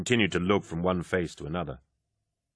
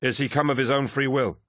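hidden lodge master voice; 6 semitones higher than usual. Acted. Hidden voice questioning ritually.

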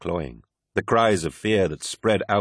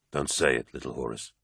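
warning; 5 semitones lower, 6 dB quieter than usual. A narrator's reading. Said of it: "warned Loken".

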